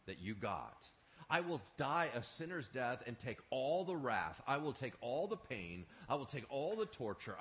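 tender resolve. Acted. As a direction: promise to bear it all, gently. Jesus voiced, resolved to suffer.

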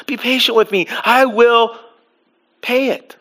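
mild pleading. Acted. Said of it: "He pleaded".

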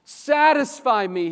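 slow, loud, high cry. Acted. Preacher voicing the psalmist's cry to God. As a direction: stretch out the plea. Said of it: "he cries out".

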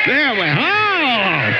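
high, loud and drawn out oh; excited outburst. Real, not acted. Preacher catching himself getting worked up, loud high oh. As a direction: burst out, carried away.

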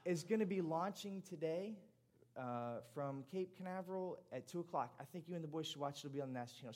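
a hint of an eager aunt. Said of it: "my aunt's best voice".

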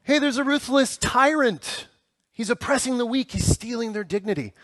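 high, mock-dramatic alarm; hammed-up movie urgency; action-movie hero. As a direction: announce the villain like a cheesy movie line. Mock action-movie plot setup.

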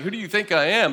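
dry, mocking question; sarcastic. Shown as a demonstration. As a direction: say it with a sneer.

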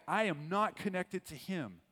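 a hint of Peter's firm denial; emphatic denial. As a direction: deny it firmly, as Peter. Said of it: "he was emphatic".

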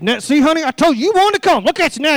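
lightly voiced wife needling husband; nagging wife. Wife scolding husband in pew.

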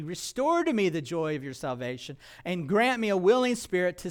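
Psalm read out with preaching force; scripture reading. Acted. Preacher reading the psalm to his congregation, fervent. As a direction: read the psalm as a prayer to God.

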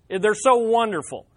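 mock-enthusiastic praise; sarcastic. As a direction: praise it with obvious irony. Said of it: "I'm being sarcastic here".

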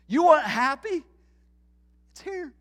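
voice of the Creator. Retold or imitated. Voicing God's words to us.

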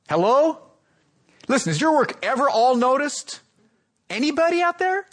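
high-pitched, insistent questioning; calling for response. Real, not acted. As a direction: prod a silent crowd for an answer. Prodding an unresponsive congregation for an answer.

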